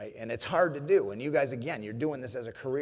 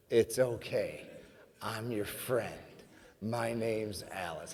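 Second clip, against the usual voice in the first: softly together; 2 semitones lower, 5 dB quieter, slower than usual. Shown as a demonstration. Leading the audience to repeat Alice's words, gently. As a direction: lead the crowd gently, slowing at the end. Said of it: "if we say those things together".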